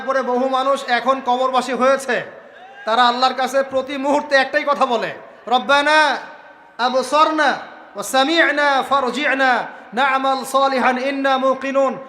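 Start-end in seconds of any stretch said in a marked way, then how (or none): 5.5-12.0 slow, drawn-out Arabic recitation; slow reverent Quranic recitation. Acted. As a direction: chant the verse slowly and reverently. Quranic verse recited in sermon.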